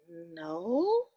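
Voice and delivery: a small high, soft No; timid little whisper. A narrator's reading. Caught girl whispers a guilty no to her auntie, high and soft. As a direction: squeak it out guiltily. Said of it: "and whispered".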